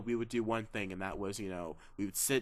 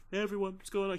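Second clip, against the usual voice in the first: higher, youthful chipper greeting; kid voice; 8 semitones higher, faster than usual. Retold or imitated. Mimicking young Tom Holland greeting fans, higher. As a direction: sound like a sixteen-year-old. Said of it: "He's like".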